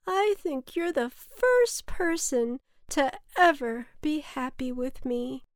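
high storybook cloud voice; cloud character, moved. A narrator's reading. Cloud thanks its first friend, touched.

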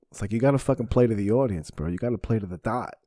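ordinary delivery

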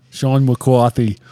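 slow, bad Boston accent on Sean. Shown as a demonstration. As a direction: drag out Sean Boston style. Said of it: "That's a horrible Boston accent".

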